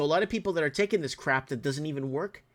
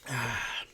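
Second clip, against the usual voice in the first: weary exhale from the heat; sighing from the heat; heavy sigh; 4 dB quieter than usual. Real, not acted. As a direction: let out a sigh, feeling overheated. Overheated in a hot room.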